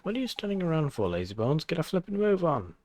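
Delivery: Welsh sidekick, fast and pushy; hurrying scold. Acted. Drippy hurrying lazy Oliver, fast Welsh scold. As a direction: chivvy him along like a mate.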